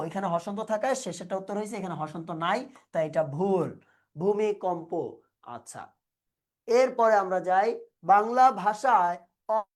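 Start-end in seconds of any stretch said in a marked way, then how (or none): 4.2-4.9 careful citation of "ভূমিকম্প", ending in an open o; pronunciation demo. Shown as a demonstration. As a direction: say "ভূমিকম্প" as a model, bhu-mi-kom-po. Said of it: "ভূমিকম্প শব্দের উচ্চারণ একদমই সহজ".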